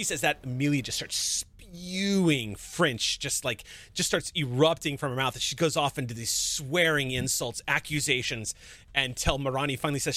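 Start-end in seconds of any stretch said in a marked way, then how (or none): none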